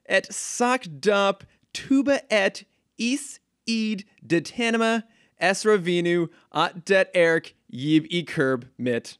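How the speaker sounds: Zatanna's backwards spell, high and slow; backwards speech. Acted. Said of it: "as Zatanna would say".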